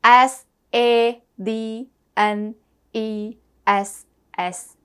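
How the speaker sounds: slow letter-by-letter spelling; spelling aloud. Shown as a demonstration. Teacher spelling sadness for the class, slow and deliberate. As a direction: spell out S A D N E S S slowly, one letter at a time.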